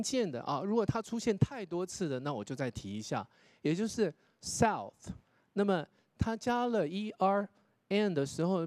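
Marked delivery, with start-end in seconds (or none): 4.4-5.1 SOUTH slowly, with an OW vowel; drawn-out careful "south"; base-word vowel. Shown as a demonstration. Teacher introducing the base word, slow "south". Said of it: "变成了southern".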